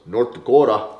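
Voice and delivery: leaning into a North Dakota accent. Shown as a demonstration. Coach showing hometown speech, North Dakota accent. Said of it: "that's how everyone talks".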